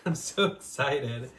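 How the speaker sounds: slow, giggling through the words; real nervous laughter; laughing excitedly. Real, not acted. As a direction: laugh it out, giddy. Laughing while unboxing her book.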